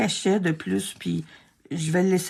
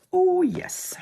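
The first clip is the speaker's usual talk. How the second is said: high whispered oh yes; a small whispered cheer of delight; 11 semitones higher than usual. Real, not acted. Pleased with the cut.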